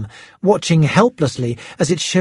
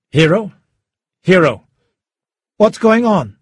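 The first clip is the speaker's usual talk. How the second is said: urgent caller; 4 semitones higher, 4 dB louder than usual. A narrator's reading. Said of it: "Schubert's voice was clear all of a sudden".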